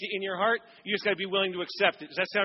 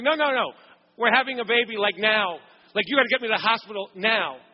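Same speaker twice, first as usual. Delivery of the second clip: put-on louder, insistent "we're having a baby, like, now"; urgent; 4 dB louder than usual. Wife insists urgently on hospital.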